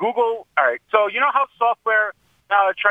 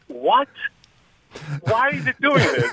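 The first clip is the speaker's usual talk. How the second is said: baffled; 5 semitones higher, slower than usual. Retold or imitated. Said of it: "I'm like".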